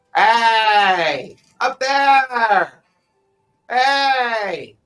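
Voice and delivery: high, very loud goblin yell rising upward. Narrating the scene to the players, the speaker voices a goblin yelling up. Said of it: "You hear a goblin voice yell up".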